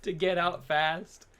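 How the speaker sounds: high-pitched words bursting out through laughter; amused, laughing. Real, not acted. Co-host teasing about the escape spot, laughing. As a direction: laugh all through the line.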